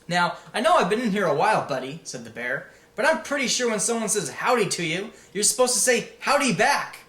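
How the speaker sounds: the bear teases Gestalt, a little high and cheerful; cheerful teddy bear. Acted. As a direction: tease him gently for not greeting back. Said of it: "in a cheerful tone".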